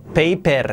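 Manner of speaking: "paper" with a full Spanish "ei" and tapped final r; Spanish-accented English. Shown as a demonstration. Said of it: "En lugar de decir paper".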